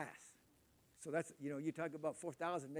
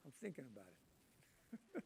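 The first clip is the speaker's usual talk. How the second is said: drawn-out, much softer, lower musing; slow musing; 5 semitones lower, 17 dB quieter, slower than usual. Retold or imitated. Answering the missionaries, slow and much softer. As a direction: stall them with a slow mock ponder. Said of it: "I said".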